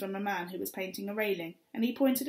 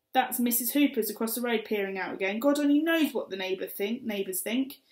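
mum's frantic rant; 6 semitones higher, 5 dB louder than usual. Acted. Mum ranting about neighbours.

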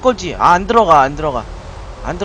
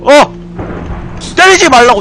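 loud frantic protest, jumping higher; panicked shout; 6 semitones higher, 6 dB louder than usual. Real, not acted. Player shouts at the attacking monster, loud and frantic. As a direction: yell at the monster to stop.

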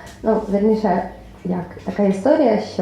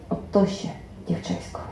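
grumbling; 9 dB quieter than usual. A narrator's reading. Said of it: "принишку бурчав".

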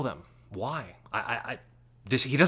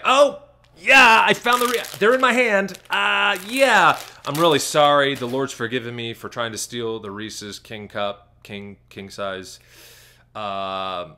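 mocking the pastor; 4 dB louder, slower than usual. Pastor caught with the candy, loud hammed-up confession. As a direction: ham up a caught pastor's fake apology. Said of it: "Now it's like".

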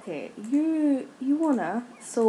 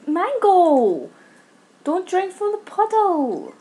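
high, exasperated call to a pet; scolding call; 8 semitones higher, 4 dB louder, slower than usual. Real, not acted. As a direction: call out the name loudly, then scold higher. Calling out scolding at game pet.

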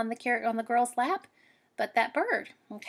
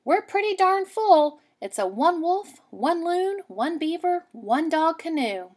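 higher and louder, fed up; exasperated girl; 7 semitones higher, 5 dB louder than usual. Acted. Girl to the bear, higher, louder, fed up. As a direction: near bursting with frustration.

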